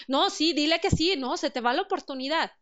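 pushy rushed advice. Retold or imitated. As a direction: hurry them into saying yes before it's gone. Voicing rash advice pushing a decision.

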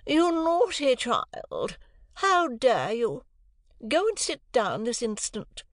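high, slow, indignant scolding; scolding mother. A narrator's reading. Mother snapping at Jane, indignant and high. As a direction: scold the child from a great height. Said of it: "said to Jane".

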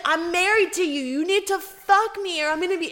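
retelling a wife's yell at her husband on the road; mock scream. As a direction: imitate the angry wife. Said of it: "she's, like, screaming at him in the road".

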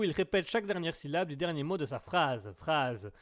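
phrase endings parroted like a verbal tic; verbal tic demonstration. Shown as a demonstration. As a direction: echo the last syllable after each phrase. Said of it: "il y a des tics verbaux". (tic verbal, fins de phrases répétées)

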